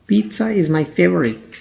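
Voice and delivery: very slow, clear example; slow model sentence. Shown as a demonstration. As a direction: read it slowly for learners. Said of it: "example sentence read slowly". (धीमा उदाहरण वाक्य)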